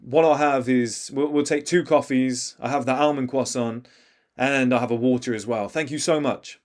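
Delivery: clear, projected, confident order; strong, measured customer voice; speaking loudly. Shown as a demonstration. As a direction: order firmly so everyone can hear. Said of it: "you speaking loudly and saying".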